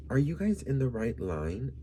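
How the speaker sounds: condescending question. Retold or imitated.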